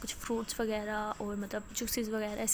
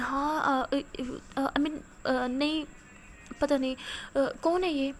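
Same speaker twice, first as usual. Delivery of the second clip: shaken, tearful; 3 semitones higher, 4 dB louder, slower than usual. Acted. Old lady shaken by photo.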